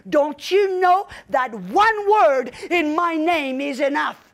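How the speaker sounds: slow, firm and weighty rebuke; authoritative voice. Retold or imitated. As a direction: speak slowly with calm authority. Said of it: "in a more authoritative voice".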